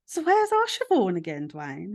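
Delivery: pressing him a third time in mum's voice; mum asking again. Retold or imitated.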